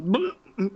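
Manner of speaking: short mock retch; retching noise. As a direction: imitate someone starting to vomit. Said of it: "starts going".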